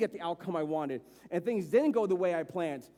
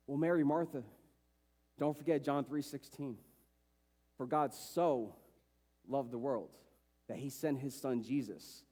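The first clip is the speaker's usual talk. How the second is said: low, soft, pious platitude voice; a hint of a preachy comforter; mock cliché comforter; 6 semitones lower, 5 dB quieter than usual. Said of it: "the cliches that Mary and Martha would hear".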